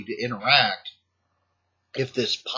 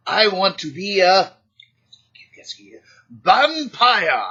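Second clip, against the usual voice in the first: put-on higher and louder, a grinning kid's answer; the kid holds back, then springs the word; sly kid; 8 semitones higher, 8 dB louder, slower than usual. Retelling a grinning kid who answers the teacher in a high, louder voice. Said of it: "He's just like".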